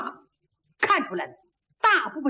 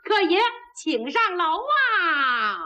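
waiter's sing-song invite; 4 semitones higher, slower than usual. Acted. Waiter invites guests upstairs.

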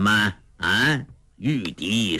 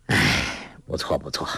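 a sigh, then much lower and softer; 8 semitones lower, 3 dB quieter than usual. A narrator's reading. Old beggar sighing to the girl, resigned. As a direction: concede with a weary sigh. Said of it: "洪七公叹了口气说".

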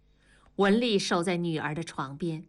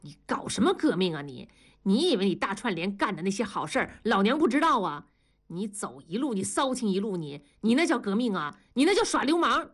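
furious accusation; faster than usual. Acted. Enraged wife attacking her husband's revolutionary talk, furious accusation. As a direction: accuse him, rising sharply on the last line. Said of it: "庄嫂怒火中烧".

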